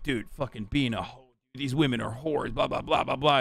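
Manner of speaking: scoffing impression of a judgy dude; mocking quote. Mocking people who call women whores.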